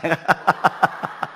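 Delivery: chuckling at one's own joke; short run of amused laughter; real chuckle. Real, not acted. Preacher to congregation after a teasing joke, chuckling.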